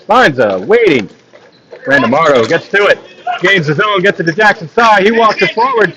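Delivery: steady running hockey commentary; live play-by-play. Acted. Commentator calling the game for stream viewers, live play-by-play. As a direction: call the puck movement as it happens.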